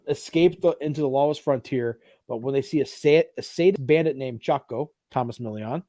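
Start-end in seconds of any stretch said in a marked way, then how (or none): 3.4-4.9 put-on Spanish-accented name. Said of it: "the accent changed there?".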